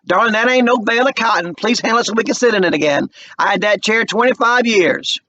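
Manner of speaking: protective of her chair; fussing Mama. A narrator's reading. Mama scolding the moving man about her chair. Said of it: "she's talking to the moving man".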